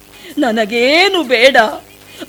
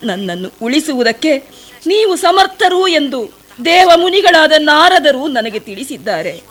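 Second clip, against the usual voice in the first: a pleading, sorrowful plea to the sage; tearful pleading. Acted. Shabari pleads at the sage's feet, tearful. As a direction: beg the sage to open his eyes, close to tears.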